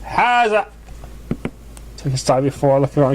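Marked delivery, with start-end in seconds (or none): 0.0-0.7 a high, slow, grand announcement of herself; hammed-up stage proclamation; mock yelling. Trixie announces herself from the cauldron, high and slow, a mild mock yell.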